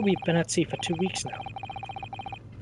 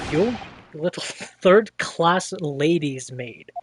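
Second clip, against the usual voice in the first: mock sneer cracking up; slower than usual. Sailor insults, breaks laughing.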